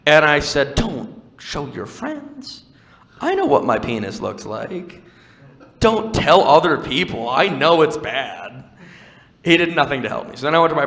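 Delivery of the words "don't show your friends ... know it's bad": slow, drawn-out exasperation; embarrassed plea, hammed-up; mock pleading protest. Patient begging the doctor not to show friends, slow mock exasperation.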